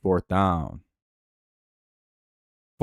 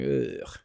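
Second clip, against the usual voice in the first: disgusted groan; 9 dB quieter than usual. Retold or imitated. Reacting to videos they scroll past.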